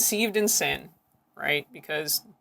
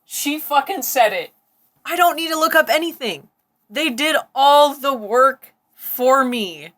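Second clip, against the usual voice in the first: high, drawn-out, loud amazement; thrilled disbelief; 6 semitones higher, 5 dB louder than usual. Real, not acted. Host gloating over the clip, thrilled disbelief. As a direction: exclaim it slowly, voice pitched way up.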